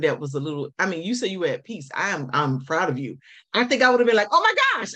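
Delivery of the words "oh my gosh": a pretend panicked "Oh my gosh!", much higher and louder; freaked out. Host picturing herself panicking at the seizure, mock panic. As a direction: act out the freak-out you would have had. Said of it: "I would have freaked".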